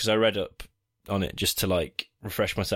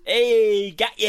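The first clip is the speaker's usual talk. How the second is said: high, loud ghostly taunt; spooky ghost; 11 semitones higher, 6 dB louder, slower than usual. Acted. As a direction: cackle it out like a ghost. Acting the ghost catching him.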